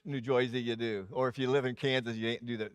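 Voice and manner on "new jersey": quick New Jersey accent, "Jersey" as "Joysey"; a throwaway New Jersey accent on "New Jersey". Shown as a demonstration. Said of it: "if you're Jewish".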